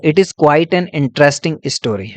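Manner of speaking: each word spaced out slowly for notes; measured dictation pace. Shown as a demonstration. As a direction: read it out slowly so students can copy it down. Teacher dictating an example sentence.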